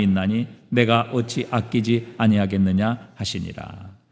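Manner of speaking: low-pitched, measured recitation; scripture reading. Acted. Preacher reads the verses with the congregation, formal recitation.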